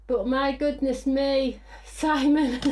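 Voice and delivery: slow, loud, drawn-out exclamation; exasperated exclamation. Real, not acted. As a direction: stretch it out in disbelief. Exclaiming about a hectic day.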